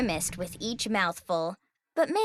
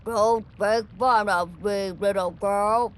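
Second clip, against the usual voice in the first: pompous dragon voice; 2 semitones lower, 4 dB louder than usual. Acted. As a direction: announce yourself like a grand old beast. Offended dragon scolds Zoe.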